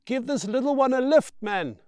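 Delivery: loud, high friendly call; cheerful shouted favour; shouting over noise. Acted. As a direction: yell the request over the machines. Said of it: "shouts Brian above the clatter".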